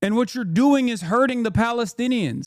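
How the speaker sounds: high, insistent imitation of a ranter; mock screaming. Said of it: "screaming about Hamas and Israel".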